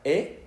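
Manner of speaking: "E" as one pure vowel, rising; French E sound. Shown as a demonstration. Teacher showing how the letters are pronounced, isolated "E". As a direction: sound out a clean single "E". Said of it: "Esto se pronuncia".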